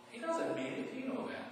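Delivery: hushed, breathy aside; whispered aside. Real, not acted. Preacher whispering to the congregation, a hushed confiding aside. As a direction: let the audience in on the secret in a whisper.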